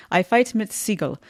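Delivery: lightly attempted German accent; bad German accent. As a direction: have a clumsy go at a German accent. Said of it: "My German accent is horrible".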